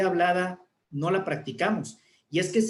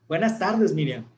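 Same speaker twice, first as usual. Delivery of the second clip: cheerful greeting; 4 dB louder than usual. Shown as a demonstration. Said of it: "Si estoy alegre".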